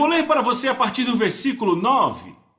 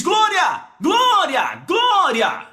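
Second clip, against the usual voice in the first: repeated high cries, each falling away; exultant bursts of praise; shouted praise; 7 semitones higher, much slower than usual. Acted. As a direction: cry out glória like one seized by the Spirit. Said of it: "Por que ele está gritando glória?".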